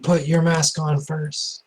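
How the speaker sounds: high, slow haunting voice from beyond; ghostly voice. Acted. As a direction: speak slow as a distant ghost. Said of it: "A ghostly voice".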